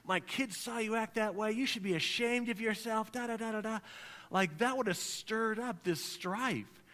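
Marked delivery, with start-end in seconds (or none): 0.0-3.8 lightly acted harsh rebuke; scolding mom. Pastor imitating wife scolding the driver, mildly mock stern. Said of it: "what if Mom would have said".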